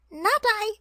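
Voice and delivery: high squeaky snippy no; snippy rat. A narrator's reading. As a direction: squeak a gleeful snippy refusal. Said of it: "with snippy glee".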